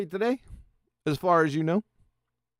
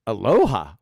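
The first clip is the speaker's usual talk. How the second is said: puzzled aloha; 8 semitones lower, 3 dB louder than usual. Real, not acted. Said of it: "He didn't do aloha".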